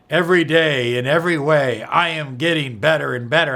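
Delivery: loud, upbeat affirmation, said out. Shown as a demonstration. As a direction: announce it to the room. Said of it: "You can do it like that".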